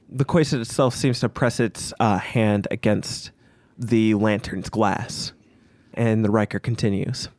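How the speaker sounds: game master narration. A narrator's reading.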